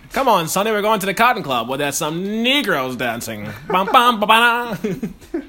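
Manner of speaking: put-on old-timey voice with scat singing; playful 1940s hepcat voice. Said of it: "the quintessential fucking old-timey voice".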